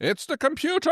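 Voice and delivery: high gasp of mock discovery; mock dramatic reveal. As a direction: announce it like a cliffhanger.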